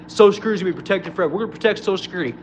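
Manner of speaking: fast, mocking politician's empty promise; quick mock politician promise. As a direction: rattle it off like a hollow campaign line.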